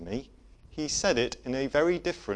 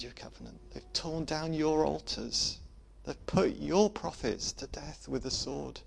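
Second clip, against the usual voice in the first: broken confession. Retold or imitated. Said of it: "it came out something a bit more like".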